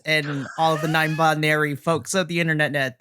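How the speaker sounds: attempted Irish accent. Podcast host greets listeners for New Year in a not-quite Irish accent. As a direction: have a go at a rough Irish lilt. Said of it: "that was almost an Irish".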